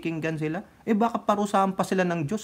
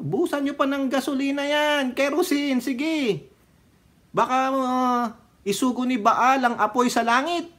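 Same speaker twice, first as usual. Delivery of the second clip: mocking taunt; 8 semitones higher than usual. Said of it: "sabi ni".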